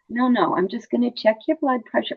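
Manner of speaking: put-on calm a nervous child; soft reassuring nurse. Shown as a demonstration. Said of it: "It's all in words".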